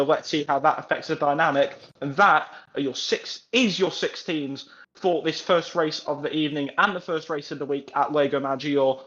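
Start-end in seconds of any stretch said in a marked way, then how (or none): 3.5-9.0 breathless after a long read; winded, short on air; out of breath. Real, not acted. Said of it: "I'm out of breath".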